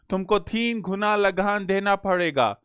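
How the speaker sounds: a light hint of an English accent on Hindi; Englishman's Hindi accent. Teacher showing students an English accent, lightly imitated. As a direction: lightly voice a British officer speaking Hindi. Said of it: "ये accent है, बोलने का लहजा है".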